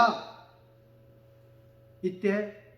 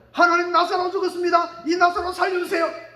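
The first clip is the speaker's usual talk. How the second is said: shouted plea to God, pitch raised; loud prayer; 4 semitones higher, 5 dB louder than usual. Retold or imitated. Preacher voicing a loud prayer to God, shouting. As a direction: cry out to God for the storm to stop.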